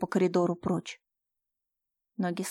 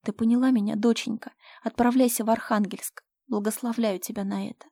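louder; 3 semitones higher, 3 dB louder than usual. Acted. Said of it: "уже громче добавила".

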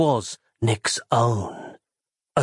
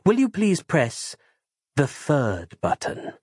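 polite character voice; slower than usual. Acted. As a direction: ask it slowly, politely, in character. Character asks Valesco to press.

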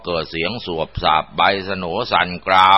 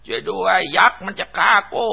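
panicked cry for help; 12 semitones higher than usual. Acted. Villager fleeing a giant, acted panicked high cry for help. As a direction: cry for help as if calling across a field, voice pitched way up. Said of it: "นายยุ้ยตะโกนลั่นทุ่ง".

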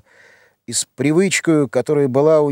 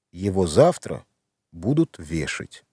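much lower and softer, almost breathed; hushed realization; 7 semitones lower, 5 dB quieter than usual. A narrator's reading. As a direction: let the horror sink in quietly. Мать вдруг понимает ужас. (тихо, ниже, с ужасом осознания)

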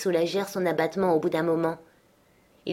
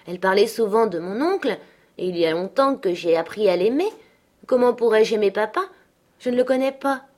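lightly voiced young boy, rising questions; a hint of a reluctant child; doubtful child; 3 semitones higher, 3 dB louder than usual. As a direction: protest mildly as a puzzled little boy.

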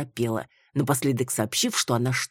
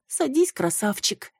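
mumbling; 8 semitones higher than usual. A narrator's reading. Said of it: "промямлила она".

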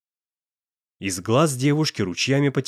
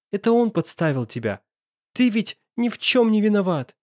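put-on higher, desperate girl's voice; pleading girl; 8 semitones higher than usual. A narrator's reading. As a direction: beg him not to leave.

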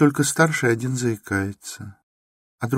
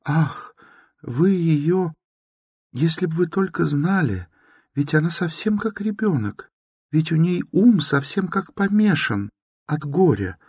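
put-on high, anguished pleading girl; a distraught young woman defending her stepmother; desperate pleading; 13 semitones higher than usual. A narrator's reading. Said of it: "точно в отчаянии, волнуясь и страдая".

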